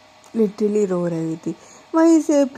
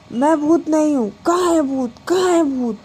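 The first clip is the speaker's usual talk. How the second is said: startled panic; 5 semitones higher, 4 dB louder than usual. Acted. Startled Diksha looks for ghost.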